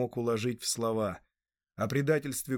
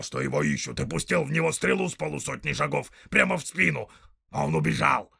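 loud, high snarling orc tracker; rough orc voice; 3 semitones higher, 5 dB louder than usual. Acted. Orc tracker arguing with the big orc, loud and snarling. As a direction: bark it out like a quarrelsome orc.

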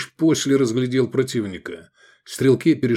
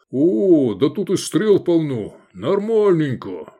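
calling out; 5 semitones higher, slower than usual. Acted. Gefestai calling out happily about the arrows. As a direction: shout out your lucky find. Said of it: "он крикнул".

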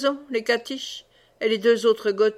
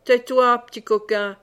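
a mock-stern tais-toi; sharp hush; 4 dB louder than usual. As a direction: cut the boy off firmly. Bruno silences the boy.

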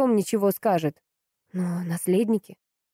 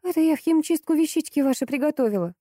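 fawning; 9 semitones higher than usual. A narrator's reading. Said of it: "залебезила Анна".

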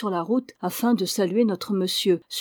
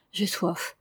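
murmured; 5 dB quieter than usual. Acted. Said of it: "murmura le vieillard".

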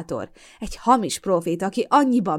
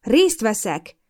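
indignant; 4 semitones higher, 6 dB louder, much slower than usual. Acted. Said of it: "néztem rá felháborodva".

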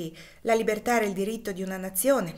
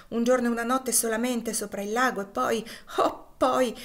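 rising higher and louder into a longing oh; hopeful rapture; 4 semitones higher, 4 dB louder than usual. Acted. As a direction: let the hope carry you away. Wife dreams of freedom. (marito e moglie sognano il Canada, slancio di speranza)

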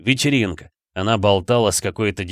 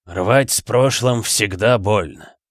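calm remark; slower than usual. Acted. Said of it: "заметил Танат".

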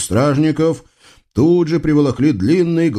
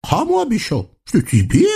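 mock amazement; 4 semitones higher than usual. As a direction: feign innocent surprise. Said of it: "От всего сердца изумился". (наигранное изумление султана)

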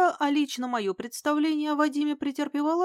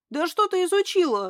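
exploding; 7 semitones higher, 5 dB louder than usual. Acted. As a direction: burst out higher and louder. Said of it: "взорвался он". (взорвался, громко и возмущённо)

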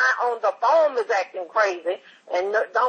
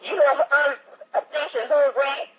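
a higher put-on voice, brash and provocative; put-on rowdy caller; 5 semitones higher than usual. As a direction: goad the other guy while faking a wrong room. Prank caller in a second voice.

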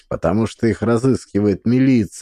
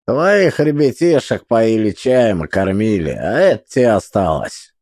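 gruff man's voice. Acted. Fat man, changed timbre.

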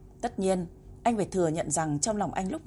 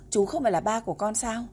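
put-on child's deliberate cry; 3 semitones higher than usual. Boy deliberately acting confused at the stranger on the phone. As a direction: ask it like a surprised little boy. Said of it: "cố tình kêu lên".

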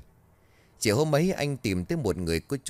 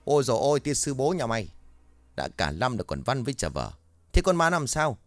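exasperated guard yell; 4 semitones higher than usual. Acted. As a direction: blow up at him.

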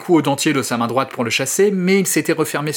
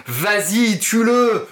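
urging shout; 7 semitones higher, much slower than usual. Acted. Hogan cheering on the teeth, frantic high yell.

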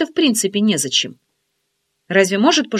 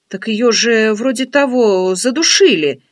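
surprised; 5 dB louder, slower than usual. Acted. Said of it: "удивилась подруга".

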